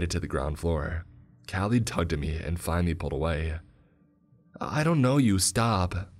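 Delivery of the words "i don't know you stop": high, loud scream dropping off. A narrator's reading. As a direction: pull away screaming at a stranger. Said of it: "she screamed".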